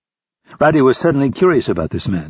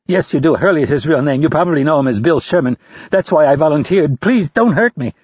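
pleading; 5 semitones higher than usual. A narrator's reading. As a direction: beg a captor for mercy. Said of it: "Rapp pleaded".

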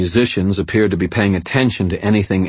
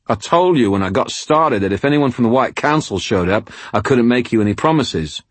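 put-on higher, irritated English-accented retort; annoyed; 5 semitones higher than usual. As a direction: shoot back, fed up. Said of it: "he shot back, his voice annoyed".

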